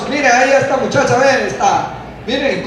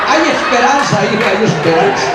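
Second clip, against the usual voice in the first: quoting reassurance; 2 semitones lower than usual. Retold or imitated. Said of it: "usted dijo".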